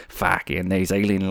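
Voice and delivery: put-on unsure stab at a New Zealand accent; slow, groping New Zealand accent; attempted New Zealand accent. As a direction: try out a New Zealand accent, not quite landing it. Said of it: "is that New Zealand?".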